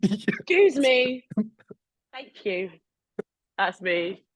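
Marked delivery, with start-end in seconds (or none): 0.0-2.7 louder passive-aggressive tut. Retold or imitated. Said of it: "Are you a tutter?".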